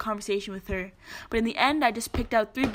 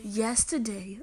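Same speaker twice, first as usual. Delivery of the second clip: softer attempted British accent; 2 semitones lower, 5 dB quieter, much slower than usual. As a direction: try it lightly in British. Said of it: "read it in a British accent".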